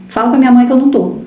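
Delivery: son's quick lie. Retold or imitated. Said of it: "ele vai dizer assim".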